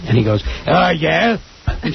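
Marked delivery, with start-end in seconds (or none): 0.6-1.4 lightly voiced comic; mock Gilbert answer; Gilbert Gottfried impression. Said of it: "that's a great Gilbert Gottfried impression".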